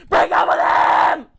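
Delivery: high, drawn-out shout at the screen; exasperated yell. Retold or imitated. Viewer shouting at a wife on TV, exasperated yell. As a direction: yell it like the couple can hear you. Retells yelling at the show.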